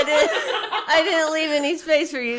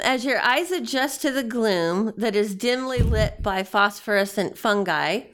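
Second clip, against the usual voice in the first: measured scene-setting voice; game master narration. Acted.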